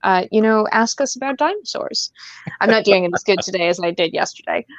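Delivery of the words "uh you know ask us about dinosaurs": light radio-host interviewer voice, drawn out; a gentle, probing radio interviewer; lightly voiced public radio host; imitating Carol Off. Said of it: "I can just imagine Carol Off calling him on the phone and be like".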